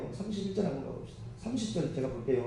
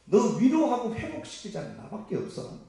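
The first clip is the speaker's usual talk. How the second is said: emphatic reassurance, building higher and louder; God; 5 semitones higher, 6 dB louder than usual. Retold or imitated. Preacher voicing God comforting the believer, emphatic and insistent. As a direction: insist with rising force, stretching key words. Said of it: "그 얘기하잖아요".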